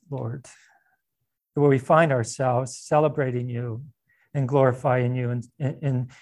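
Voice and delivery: low, earnest pastoral prayer voice; closing prayer. Acted. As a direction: pray over the congregation, tender and unhurried.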